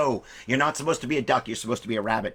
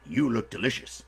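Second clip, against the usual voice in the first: slow, drawn-out menacing bear; big storybook bear, very slow; hungry bear; 5 dB louder than usual. Acted. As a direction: savour each word like a hungry bear.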